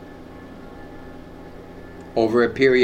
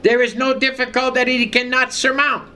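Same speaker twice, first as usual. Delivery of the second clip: higher-pitched declaration of "no"; emphatic preaching; 10 semitones higher than usual. Real, not acted. Preacher assuring the congregation that God solves every problem, emphatic preaching. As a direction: preach it with firm conviction.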